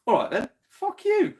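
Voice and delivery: high, loud, slow fuck-off; loud defiant shout; shouted retort. Retold or imitated. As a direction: yell it back at the clerk. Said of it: "And I was like".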